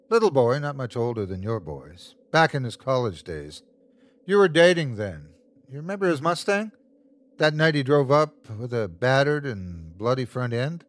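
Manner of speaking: lively, needling monster; taunting creature. Acted. Creature reminds the wife of that night, needling. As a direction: lead the victim to the awful truth.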